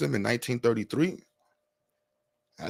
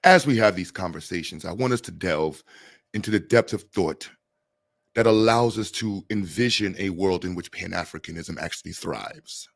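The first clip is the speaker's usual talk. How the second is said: mock formal speech. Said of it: "why am I speaking like this?".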